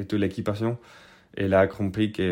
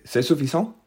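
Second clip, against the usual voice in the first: higher, questioning policeman; policeman repeating; 6 semitones higher than usual. Retold or imitated. Border policeman repeating his question, higher and questioning. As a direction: press him with the question again. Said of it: "il m'a répété".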